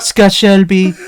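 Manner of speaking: slow, lightly put-on French accent; a light French accent, breathing the name; mock French accent. Host imitating a French game character, light French accent. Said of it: "French prostitute lady".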